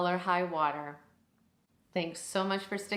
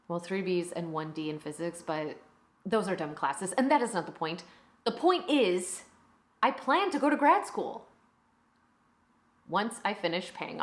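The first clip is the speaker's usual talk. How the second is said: self-justifying teacher, rising emphasis on the point; defensive teacher. Acted. Teacher justifies having only one degree, defensively. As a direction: defend your record, halting then insistent.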